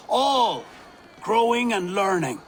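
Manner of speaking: proud proclamation. Acted. Ealdorman's farewell speech to village.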